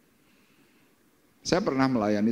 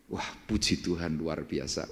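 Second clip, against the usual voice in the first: mock cheerful reply; 5 semitones lower, 6 dB quieter than usual. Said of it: "Kita ditanya".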